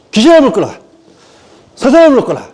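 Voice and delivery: high-pitched parody of casting out demons; hammed-up command to evil spirits; mock exorcist. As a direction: mimic an overexcited exorcist. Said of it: "이게 장로교".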